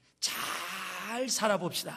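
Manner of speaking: strong stress on 잘, rest said plainly. Teaching an emphatic greeting to an audience, strong stress on 잘. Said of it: "강조법입니다. 잘 살아봅시다 이렇게 발음해야 돼요".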